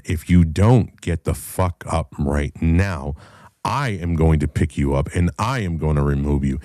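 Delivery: measured, emphatic mock ultimatum; stern ultimatum. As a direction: lay down a warning word by word. Retold ultimatum to the drunk.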